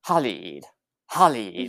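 "Khalid" with throaty start and long ee; attempted ee vowel. Shown as a demonstration. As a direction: carefully practise "Khalid", ending in "eed". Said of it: "the I was also kind of an E".

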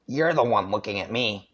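deep annoyed grunt-talk. Shown as a demonstration. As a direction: grumble it out, irritated. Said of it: "I'll just go a deep kind of annoyed grunting voice".

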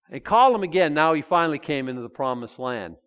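lightly voiced God, pleased at last; voicing God. Pastor voicing God about Abraham finally arriving.

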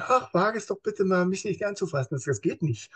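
a toothless warning with no threat behind it; powerless other mood. Shown as a demonstration. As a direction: feebly beg them not to touch you. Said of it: "wenn ich eine andere Stimmung habe".

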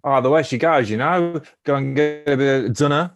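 attempted Kiwi accent; New Zealand accent. Player improvising a line for the game, New Zealand accent. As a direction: have a casual go at New Zealand vowels. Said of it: "your best New Zealand accent".

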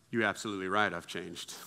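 low, soft concession; acted composed reply; calm admission. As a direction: own it quietly, letting the voice sink.

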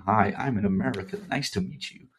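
put-on flat robotic American accent; robotic general American. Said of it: "which sounds very robotic".

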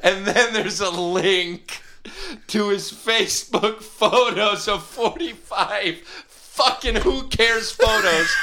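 high laughing yell; laughing shout. Real, not acted. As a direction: shout it mid-howl. The speaker ranting through laughter.

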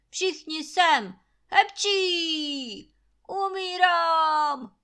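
loud, high, slow, sneezing wail; milk it like he is dying; hammed-up dying wail. A narrator's reading. Sick landlord wailing to servants that he is dying, loud and slow. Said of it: "zasípěl Trautenberg".

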